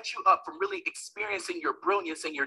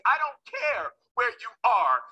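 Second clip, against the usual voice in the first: slow, firm demand; a hint of a stern grandmother; 4 semitones higher, much slower than usual. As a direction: lay down the law slowly. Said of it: "I hear my grandmother say".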